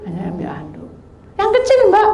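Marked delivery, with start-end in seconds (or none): 1.4-2.1 high, squealed urgent request; seruan panik tiruan. Retold or imitated. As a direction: cry it out high to the helper. Urgent request for small towel. (berseru panik bernada tinggi)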